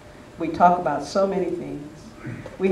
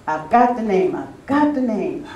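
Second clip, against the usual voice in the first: a bit higher, eager retelling of the big news; retold excitement; 4 semitones higher than usual. Friend bursting in at dawn with the ranch name, excited. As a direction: replay his thrilled announcement, lifted but not full. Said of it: "He was so excited".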